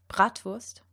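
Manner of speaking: "Bratwurst" with throaty uvular R and V sound; "Bratwurst" said the German way, R at the back of the throat. Shown as a demonstration. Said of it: "here are a few German example words".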